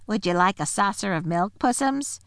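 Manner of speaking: lightly voiced sugary sneer; mock sweet taunt. A narrator's reading. Creature taunting the bound lion. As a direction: offer it with fake kindness. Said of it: "jeering at him".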